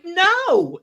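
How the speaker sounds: wife refusing the husband, a sharp loud no; firm no. Retold or imitated. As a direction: shut it down hard. Retold argument, her refusal.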